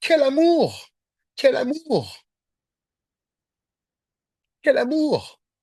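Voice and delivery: slow, swooping, overcome, near-tears exclamations. Speaking to listeners about Jesus's love for the lost one, on the verge of tears. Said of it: "j'ai envie de pleurer, excusez-moi".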